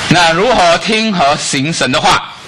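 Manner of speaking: high, slow preaching question; slow emphatic question. Acted. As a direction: lay out the key question. Rhetorical sermon question.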